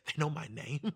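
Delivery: ordinary talk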